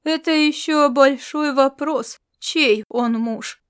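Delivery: slow, unhurried cool retort; slow composed reply to the queen; calm remark. Acted. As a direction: say it calmly, taking your time. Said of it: "спокойно заметил".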